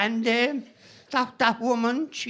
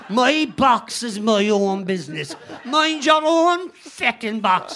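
mock shout; 4 dB louder than usual. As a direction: hammer each word as a half-joking outburst. Retelling his outburst.

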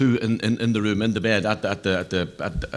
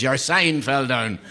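deadpan punchline; 2 semitones higher, much slower than usual. Retold or imitated.

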